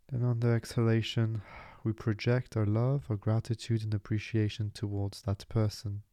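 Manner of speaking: gently paced meditation instructions; guided meditation. Acted. Meditation teacher leading a dedication of love and gratitude, calm guiding voice. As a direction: guide the listener calmly, leaving room to breathe.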